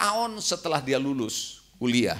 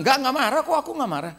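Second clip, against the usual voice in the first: laughing denial; 8 semitones higher, much faster than usual. Retold or imitated. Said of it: "Jangan bilang".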